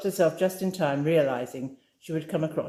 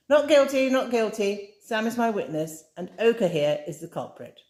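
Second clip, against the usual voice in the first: high, loud mock protest; protesting innocence; 7 semitones higher, 3 dB louder than usual. A narrator's reading. Lucia denies upsetting Amy, in high mock protest. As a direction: throw up her hands, playfully defensive.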